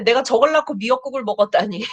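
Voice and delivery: fast, mock-exasperated grumble; exasperated parent. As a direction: mutter it like a fed-up mom, half joking. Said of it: "이런 생각 드는 날도". (자식에게 질린 엄마가 장난스럽게 투덜거리듯)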